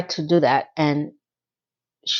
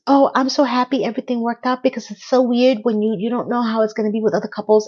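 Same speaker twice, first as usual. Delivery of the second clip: lightly put-on odd voice, pitched higher; imitated weird voice; 3 semitones higher, faster than usual. Charlotte trying to speak after the match, imitated weird voice. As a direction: mimic an actress's strained speech, slightly raised. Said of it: "she has this weird voice all of a sudden".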